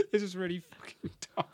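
breathy embarrassed whisper. Real, not acted. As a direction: whisper it, half laughing. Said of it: "unvoiced whisper".

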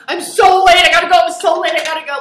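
loud, high tearful panic; mock crying. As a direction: blurt it out as if crying and fleeing. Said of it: "like, crying, like, kind of puffy lips".

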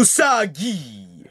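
very slow, stretched name reveal; mock announcer. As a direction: draw the name out syllable by syllable. Announces contestant as opening caption.

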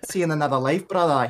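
a half-hearted attempt at a Scottish accent, barely shifted; lightly hint at a Scottish brogue; weak Scottish accent. Podcaster quoting the Scottish guy from Lost, faint Scottish accent. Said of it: "I can't really do a Scottish accent".

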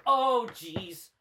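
high, loud swooning woo; swooning squeal. Retold or imitated. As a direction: squeal like a smitten fan. Women swooning at chest hair.

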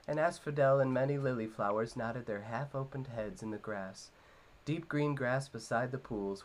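lightly voiced storytelling read; Frodo storytelling. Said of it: "a good Elijah Wood as Frodo".

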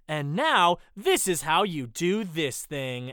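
mock infomercial host, slow and loud; hammed-up sales pitch delivery. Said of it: "worst infomercial voice I've ever heard".

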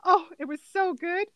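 earnest imitated enthusiasm; very genuine. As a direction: answer with wholehearted sincerity, imitating her. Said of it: "with very genuine response".

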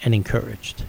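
a hint of a calm old woman; calm blessing. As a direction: say it gently, like a kind elderly stranger. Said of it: "in a real calm voice and said".

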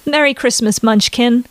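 cheerful on the surface, sleepy underneath; forced chirpiness. Acted. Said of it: "she exclaimed back, as chirpy as she could".

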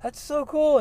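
high, bright-eyed gush of wonder; gushing at a Hollywood stuntman; amazed. Retold or imitated. Excited to the stuntman, high amazed reply.

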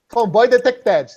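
slow robotic detector voice; robotic announcement. Pretend. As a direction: announce it like an alarm system. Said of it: "catchphrase said slowly". (voz de alarme robótica)

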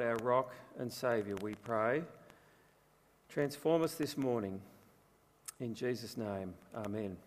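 measured, low-pitched prayer; opening prayer. Real, not acted. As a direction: pray softly and reverently, pausing between phrases.

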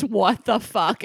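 slow, emphatic "What the fuck?", each word weighted; all-caps outrage. Retold or imitated. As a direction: read "What the fuck?" as if typed in capitals, drawn out slowly. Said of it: "in all caps".

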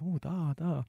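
lightly put-on Russian accent; General Yuri. General asked for a sadder story, light Russian accent. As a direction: ponder briefly with a Russian accent. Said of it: "I'm terrible with accents".

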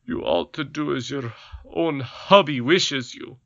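mildly stern husband; a hint of a scolding king; lightly voiced goblin king. A narrator's reading. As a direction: goblin king telling his wife to obey.

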